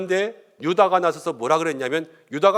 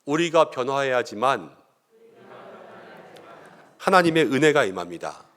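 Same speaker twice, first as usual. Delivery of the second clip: lead for repeating; 3 semitones lower than usual. Shown as a demonstration. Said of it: "한번 따라해 볼까요?".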